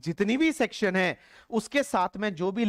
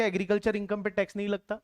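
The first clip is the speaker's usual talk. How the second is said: quick reading of the list entry; faster than usual. Shown as a demonstration. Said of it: "ये इन्होंने दे रखा है".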